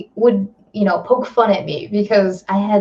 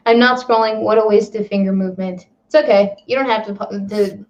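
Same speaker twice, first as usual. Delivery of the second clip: ordinary delivery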